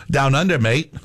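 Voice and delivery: put-on a light Australian accent on "mate". Radio host slipping in a playful Australian accent. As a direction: toss in a jokey Australian twang. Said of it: "throw out my Australian accent".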